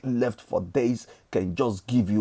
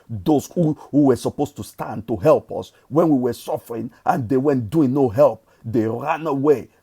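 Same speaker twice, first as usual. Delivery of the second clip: hype rally; 2 semitones higher, 4 dB louder than usual. Real, not acted.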